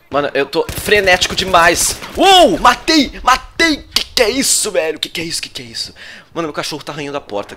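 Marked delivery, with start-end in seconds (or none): 2.2-5.0 high, loud victory yells; excited scream. Real, not acted. Streamer celebrating his kill, screaming with joy. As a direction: shout the kill out in triumph.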